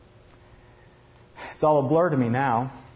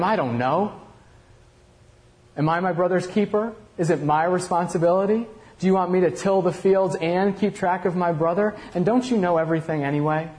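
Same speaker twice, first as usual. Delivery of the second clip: defiant retort; 5 semitones higher than usual. Acted. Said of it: "so frustrated that I just shot back at him".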